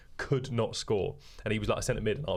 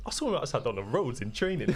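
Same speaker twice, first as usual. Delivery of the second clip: Isak; 2 semitones higher than usual. Retold or imitated. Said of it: "go roadman".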